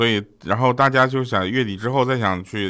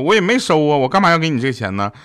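mock-baffled, pitched up at the start; baffled retort; 4 semitones higher, faster than usual. Dahua answers the date asking for flower money, baffled. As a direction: imitate someone thrown by an absurd demand. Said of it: "这时候大花都蒙圈了".

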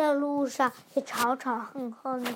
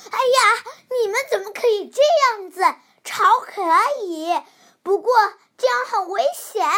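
higher, louder and fast scolding; scolding mother; 5 semitones higher, 6 dB louder, faster than usual. Acted. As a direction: tell the children off sharply. Mother scolds the fighting kids.

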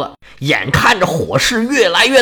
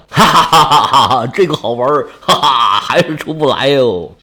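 silly chuckling; 5 semitones lower than usual. Acted. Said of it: "正在那儿傻乐呢".

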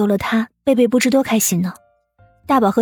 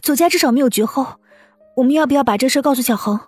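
higher, eager woman's voice; raised pitch, thinking excitedly aloud; agitated wife; 6 semitones higher, faster than usual. Acted. Wife proposing to tell the boy, agitated. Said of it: "你这么激动做什么".

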